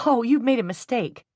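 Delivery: high, loud startled protest; bright exclaim at a delivery mistake. A narrator's reading. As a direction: blurt it out in surprise. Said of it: "Jenny exclaimed".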